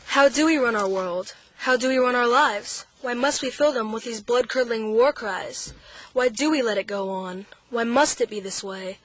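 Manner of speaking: measured, rhythmic poem reading; poem recitation. Real, not acted. Young poet reading her poem on a radio show, rhythmic recital. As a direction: recite your own anti-war verse, evenly.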